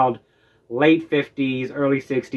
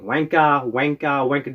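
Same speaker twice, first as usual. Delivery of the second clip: imitated British "wanka", with the final R dropped; mock British "wanka", ending in an open "ah"; British accent. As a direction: say "wanka" like a Brit. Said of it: "I heard British people saying".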